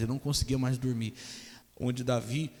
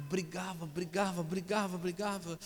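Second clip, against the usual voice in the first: repeated for effect; 7 semitones higher, 7 dB quieter than usual. Acted. Repeated word, raised pitch.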